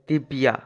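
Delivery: দিব্যা with a clear y glide after the b; Sanskrit pronunciation. Shown as a demonstration. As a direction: say দিব্যা as dib-ya, sounding the Y. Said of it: "সংস্কৃত উচ্চারণ করতে হয়". (দিব্যা, য-ফলায় স্পষ্ট ইয়-ধ্বনি)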